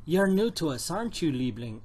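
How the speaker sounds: botched attempt at a German accent; half-hearted German accent; bad German accent. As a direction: try a German accent and barely manage it. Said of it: "I can't do German accent".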